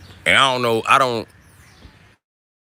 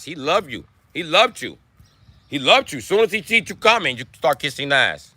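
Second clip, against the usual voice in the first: mock Mexican accent; 5 semitones higher than usual. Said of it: "the Mexican accent".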